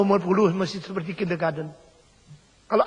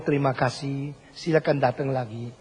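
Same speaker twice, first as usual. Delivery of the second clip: sincere Indonesian thanks; 6 semitones lower, 4 dB quieter than usual. Retold or imitated. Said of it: "kalau engkau lihat orang Indonesia".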